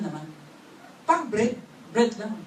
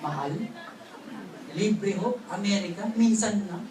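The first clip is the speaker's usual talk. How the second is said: gentle coaxing; 5 semitones lower, 4 dB quieter than usual. Pretend. Models coaxing spouse about trip.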